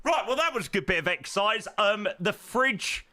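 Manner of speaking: panting after running upstairs; breathless, catching your breath. Real, not acted. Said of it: "I'm absolutely exhausted".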